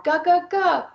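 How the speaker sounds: "ga, ga, ga" said high and exaggerated as a sound model; modeled first sound. Shown as a demonstration. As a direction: sound out "ga, ga, ga" for a child. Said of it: "I might model goldfish or".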